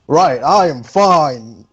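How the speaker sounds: boisterous yell. Acted. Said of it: "he yells out boisterously".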